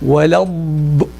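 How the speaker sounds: ولا الض- with the dad pressed, air held but not cut; Quranic dad with pressure. Shown as a demonstration. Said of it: "we're not stopping the air".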